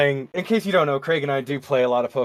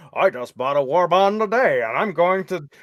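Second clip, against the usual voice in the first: imitating Humphrey Bogart. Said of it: "And he's like".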